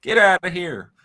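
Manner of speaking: hammed-up southern bettor; southern accent. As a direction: squabble playfully in a southern accent. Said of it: "talk with that southern accent you have".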